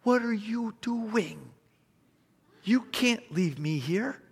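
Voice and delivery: high, slow, howled-out plea; dog's yelling voice. Retold or imitated. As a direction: wail it slowly like an abandoned dog. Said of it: "he's just yelling".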